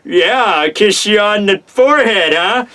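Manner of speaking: lightly put-on awkward suitor voice; mock strained, as if the face is contorting; contorted-face awkwardness. Suitor offering a kiss on the forehead, awkwardly put on. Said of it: "all the weird contorting faces".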